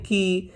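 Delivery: की with a long held ee; pronunciation demo. Shown as a demonstration. Teacher showing students the pronunciation, की held long. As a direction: draw out the vowel of की. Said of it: "इसका उच्चारण करते हैं".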